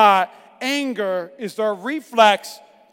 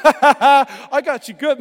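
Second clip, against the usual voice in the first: laughing; 2 semitones higher, 4 dB louder, much slower than usual. Retold or imitated. Shaking off the punch.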